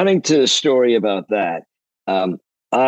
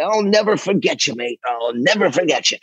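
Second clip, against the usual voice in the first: Impression of a musician; 5 semitones higher than usual. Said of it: "and he says".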